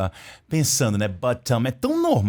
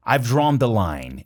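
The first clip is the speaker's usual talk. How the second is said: slow example; 2 semitones lower, slower than usual. Shown as a demonstration. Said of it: "e você diz, Ó".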